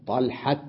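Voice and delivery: طلحة with a final t at the stop; pausal taa. Shown as a demonstration. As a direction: end طلحة on a crisp t. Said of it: "تلفظه حتى بالوقف تاء". (طلحة بالتاء الساكنة)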